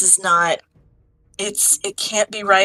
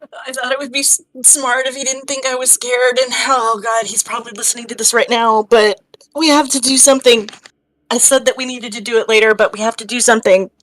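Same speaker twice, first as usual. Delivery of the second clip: crying; 3 dB louder than usual. Acted. Astra crying, urgent plea.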